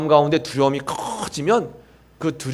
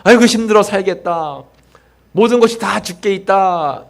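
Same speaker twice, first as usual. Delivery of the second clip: upbeat demo phrase; 5 semitones higher, 4 dB louder than usual. Shown as a demonstration. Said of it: "그러세요".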